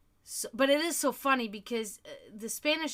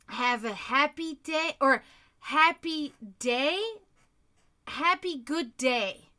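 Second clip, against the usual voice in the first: mimicking the new girl; 3 semitones higher, 5 dB louder, slower than usual. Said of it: "She asked me today".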